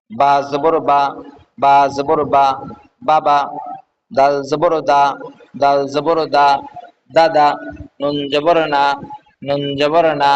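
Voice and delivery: measured, evenly chanted spelling, then the joined word; syllable-joining drill. Shown as a demonstration. Teacher showing learners how syllables join, measured recitation drill.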